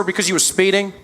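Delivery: lightly voiced American traffic cop; American policeman. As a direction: explain the stop as an American officer. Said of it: "Policeman walked up to my window".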